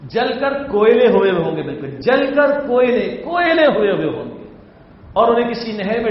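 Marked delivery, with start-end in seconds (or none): 0.0-4.4 raised, loud stress on "کوئلے"; emphatic warning. Real, not acted. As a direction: drive "کوئلے" home, high and forceful. Stern warning of hellfire.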